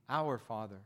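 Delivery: "our" weighed thoughtfully, pitched low; stress on OUR. Shown as a demonstration. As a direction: rest on "our", low and measured. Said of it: "the whole thing is gonna be plural".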